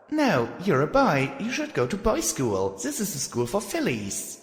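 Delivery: high, stern filly voice; bossy young filly. Acted. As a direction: scold him, high and stern. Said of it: "I said and stomped my hoof".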